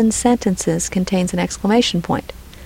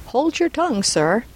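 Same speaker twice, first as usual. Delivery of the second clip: higher-pitched, mildly peremptory order; 4 semitones higher than usual. Acted. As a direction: read it as a magistrate's curt command. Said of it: "said Mister Fang peremptorily".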